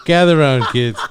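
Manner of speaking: grandpa storyteller by the fire, lightly played; hushed creepy legend telling. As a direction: gather the kids round for a tale. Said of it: "When we sit by the fire".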